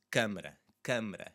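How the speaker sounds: "câmara" with a closed nasal first syllable. Shown as a demonstration. Teacher modelling "câmara" for the class, stressed first syllable. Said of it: "with the stressed syllable there".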